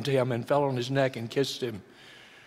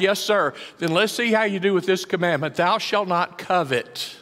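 lively acted dialogue; 4 semitones higher, 3 dB louder than usual. Jesus and ruler dialogue acted.

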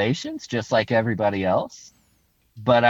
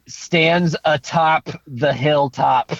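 regal voice; 2 semitones higher, much slower than usual. Acted. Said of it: "I'm trying to sound regal and cool right now".

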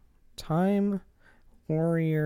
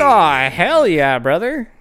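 hyped; 3 semitones higher, 7 dB louder, slower than usual. Real, not acted. Hyped reaction to plot.

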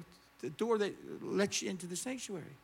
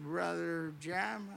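slow, drawn-out address; lightly voiced drunk man; 3 semitones lower, 4 dB quieter, much slower than usual. Drunk man standing up to address the preacher, lightly imitated. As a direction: call on the preacher slowly, a hint of drunkenness. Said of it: "I don't know if he was drunk".

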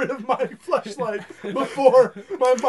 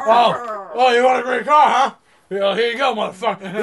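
mock tough guy; 6 dB louder than usual. Re-enacts the caption loudly.

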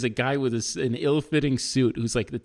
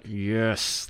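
tight, forced agreement; through clenched teeth; 3 dB quieter than usual. Retold or imitated. Defendant reluctantly agreeing before the judge, said through clenched teeth. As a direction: squeeze it out between clenched teeth. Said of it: "clenching my teeth".

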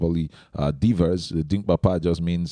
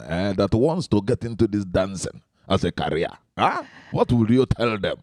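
put-on Igbo accent. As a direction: question asked in an Igbo accent. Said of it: "So I pick the Igbo accent".

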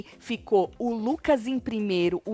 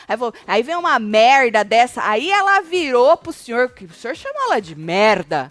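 mock indignant rant; 5 dB louder than usual. Host confronting Lucas about the bed scene, indignant. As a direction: scold him as if confronting.

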